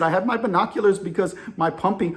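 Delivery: put-on a light, rough Indian accent; loosely imitated Indian sailor; poor Indian accent. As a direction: reenact it in an amateur Indian accent. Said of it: "I'm about to give you my poor Indian accent".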